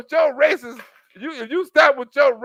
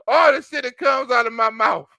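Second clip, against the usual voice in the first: mock shout of Don; 3 dB louder than usual. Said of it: "This motherfucker said".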